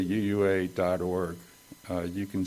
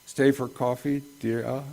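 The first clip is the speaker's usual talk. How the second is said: put-on higher, questioning Maine old-lady accent; amateur Maine accent, lilting up as an invitation; attempted Maine accent; 4 semitones higher than usual. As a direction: try a Maine accent, dropping the r in dear. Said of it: "I can't do that accent".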